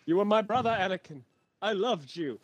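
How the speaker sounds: dramatic Obi-Wan. Pretend. Quoting Obi-Wan's Anakin speech.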